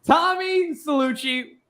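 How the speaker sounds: lightly put-on Italian tough-guy accent, mostly his own voice; a hint of a Mobster Italian accent, tossed off for laughs; mock Italian accent. Host teasing co-host Tom with a half-hearted Italian accent. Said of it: "in this Italian accent, quote unquote. It's gonna sound like this".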